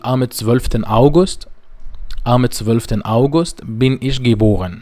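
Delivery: am nächsten Sonntag said very slowly and carefully; slow German demo. Shown as a demonstration. Teacher models German sentence two for students, very slowly. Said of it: "الجملة رقم سبعة".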